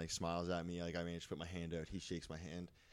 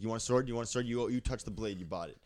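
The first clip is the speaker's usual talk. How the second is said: loud, higher hawker shouting at the crowd; pushy sword hawker; 4 semitones higher, 6 dB louder than usual. Retold or imitated. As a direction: bark out the sales pitch like a sweaty con vendor. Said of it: "He's like".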